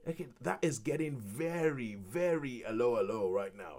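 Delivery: rising into a loud, high mock rant; hammed-up disbelief that builds to outrage; mock exasperated commentary. Watching a singer overact, mock rant building loud and high. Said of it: "I'm looking at it going".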